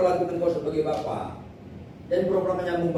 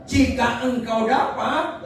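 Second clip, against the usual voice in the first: "jika engkau dapat" raised and drawn out as an exclamation; slow, higher exclamation on "jika engkau dapat"; seruan tegas; 5 semitones higher, slower than usual. Shown as a demonstration. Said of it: "Itu tanda seru". ("jika engkau dapat" diucapkan dengan nada seru)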